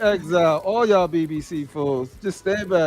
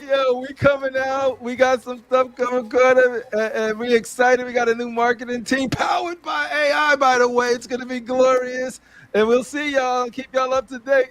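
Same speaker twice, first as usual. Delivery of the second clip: mock company announcement; 5 semitones higher than usual. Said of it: "They said".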